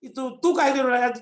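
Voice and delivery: lightly voiced village elder; village-dialect Jamvant. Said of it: "गांव की भाषा में बताऊंगा". (गाँव की बोली में डाँटना)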